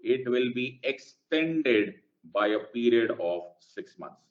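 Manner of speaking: very slow, word by word, for writing down; slow dictation. Shown as a demonstration. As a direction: dictate slowly so they can note it. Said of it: "ध्यान से सुनना".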